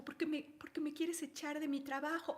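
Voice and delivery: quiet whining accusation. Retold or imitated. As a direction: assistant whines that she's being fired. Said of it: "le dicen bajito".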